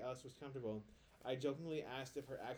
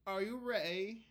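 mock London street accent; 7 semitones higher, 7 dB louder, slower than usual. Hosts put on the researched accent.

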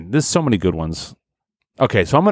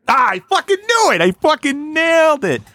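much higher, triumphant shout of victory; triumphant yell. Real, not acted. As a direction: crow over the correct guess. Triumphant about guessing the answer.

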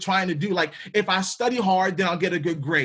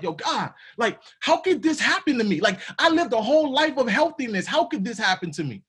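higher-pitched mock complaint, sinking at the end; questioning God; 4 semitones higher than usual. Believer questioning God after getting sick despite healthy living, acted indignant complaint. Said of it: "you start to question God".

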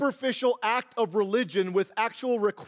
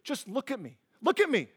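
firm calm; 4 semitones higher than usual. Retold or imitated. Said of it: "and I'll say".

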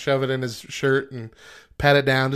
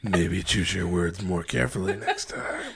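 mock stern quote; 6 semitones lower than usual. Friend mocks her threat line.

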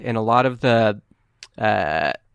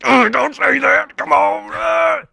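loud, high-pitched crying protest; hammed-up tearful whine; whining tough guy; 5 dB louder, slower than usual. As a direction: wail it back like a big baby. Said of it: "quit, quit whining".

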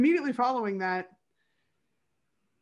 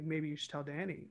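sly hint; 5 semitones lower, 10 dB quieter than usual. Retold or imitated. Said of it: "his psyche immediately does the, like".

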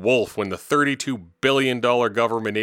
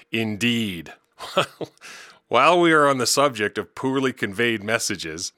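chuckling. Real, not acted. Laughing after the joke.

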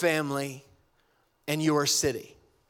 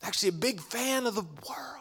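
soft whisper; 4 semitones higher, 6 dB quieter than usual. Retold or imitated. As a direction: gently whisper it, almost amused. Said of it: "he goes".

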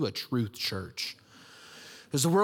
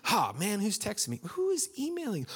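rising exasperation; 7 semitones higher than usual. Retold or imitated. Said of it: "I'm going".

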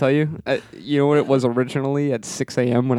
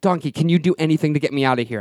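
quick, higher acted appeal; pleading; 4 semitones higher, faster than usual. Lost man begging donkey for help, urgent plea. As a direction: beg with a touch of exasperation.

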